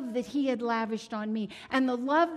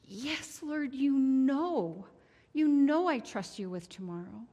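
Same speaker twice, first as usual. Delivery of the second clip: tearful answer; 5 semitones higher than usual. Retold or imitated. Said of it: "By now I'm crying".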